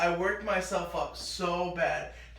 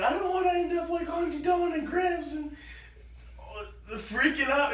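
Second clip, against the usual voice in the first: put-on panicked child shout; 9 semitones higher than usual.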